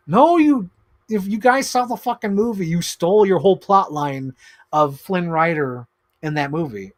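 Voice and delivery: loud, high outburst at the studio; angry rant. Real, not acted. Toy vlogger yelling at Disney over Tangled, loud and high. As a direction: shout them down in disbelief.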